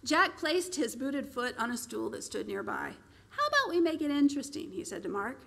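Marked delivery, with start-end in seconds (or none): 3.3-4.7 sly proposal. Acted. Barker proposing a wager.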